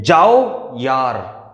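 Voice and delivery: very slow, drawn-out brush-off; dismissive. Shown as a demonstration. Girl brushing off her mother, slow and dismissive. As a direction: wave it away like a fed-up kid. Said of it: "दो word और use किए".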